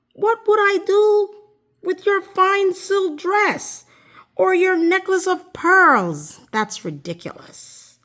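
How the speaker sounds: high mocking frog voice; the frog laughs off her silly offers, squeaky and high; scoffing frog. A narrator's reading. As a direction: frog sneering at the princess's gifts.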